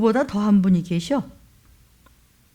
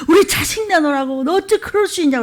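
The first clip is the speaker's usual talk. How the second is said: a touch of crying, pitched higher; retold wailing plea; 5 semitones higher than usual. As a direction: mimic a wailing mother, understated. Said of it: "아버지들이 막 울부짖죠". (울부짖는 부모 흉내, 살짝 우는 소리로)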